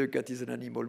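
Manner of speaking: a lightly voiced class mumbling the phrase back; pupils repeating. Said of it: "Chacun disait".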